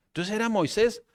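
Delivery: usual speaking voice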